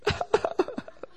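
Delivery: short breathy fake sobs; mock sobbing. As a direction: imitate someone crying in little bursts. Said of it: "she's just crying and crying".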